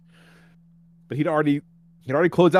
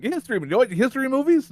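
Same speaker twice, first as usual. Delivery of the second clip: higher, insistent question; lightly voiced driver; 10 semitones higher than usual. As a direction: repeat it like he's being obvious. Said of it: "And he's like".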